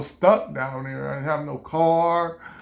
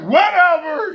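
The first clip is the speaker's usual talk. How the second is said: dismissive whatever; 11 semitones higher, 7 dB louder, slower than usual. Retold or imitated. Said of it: "I was sitting there like".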